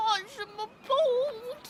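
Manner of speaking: "Archibald" said slowly with an extra syllable in the middle, like "Archi-ma-bald"; "Archibald" with a stray extra syllable mid-name. Acted. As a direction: break "Archibald" with a gasp halfway through. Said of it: "that ridiculous extra syllable".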